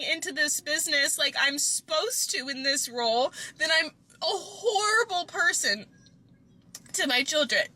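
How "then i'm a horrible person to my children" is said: crying while admitting guilt. Real, not acted. Overwhelmed mom crying to her partner, voice breaking. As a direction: voice breaking into real tears. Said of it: "since I just cried my eyes out".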